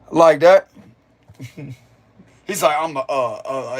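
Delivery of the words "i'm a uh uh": halting, mildly nervous mock hesitation; nervous stutter, imitated. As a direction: stall on the words, voice dropping. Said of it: "he started stuttering".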